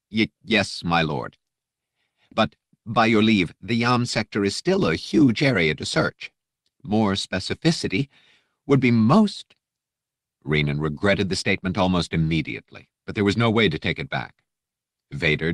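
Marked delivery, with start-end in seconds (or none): 0.1-9.5 pressing a point while afraid; nervous aide. Acted. Aide daring to ask Vader for more, anxious.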